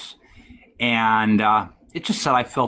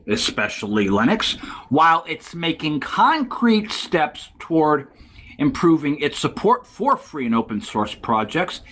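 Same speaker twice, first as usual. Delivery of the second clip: higher-pitched, deliberate reading voice; article read-aloud; 4 semitones higher than usual. Real, not acted.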